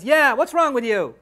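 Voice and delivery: loud little-sister echo of dad's scolding; imitated child butting in loudly; youngest daughter chiming in. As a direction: pile on, copying the parent's telling-off. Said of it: "my youngest daughter, Iman, comes along".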